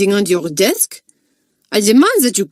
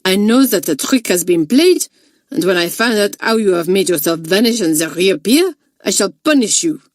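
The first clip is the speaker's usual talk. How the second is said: growing rage; 4 dB louder than usual. Acted. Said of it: "working herself up into a fine rage".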